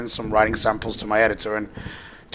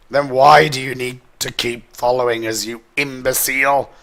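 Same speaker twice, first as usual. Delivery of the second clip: mild yell back; 4 dB louder than usual. Acted. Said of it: "Captain Allegra yelled back".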